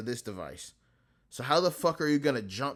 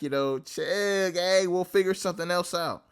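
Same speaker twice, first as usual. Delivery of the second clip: high, louder exasperated wave-off; brushing off reporters; 7 semitones higher, 4 dB louder than usual. Retold or imitated. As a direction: shoo them away, voice climbing. Family brushing off press.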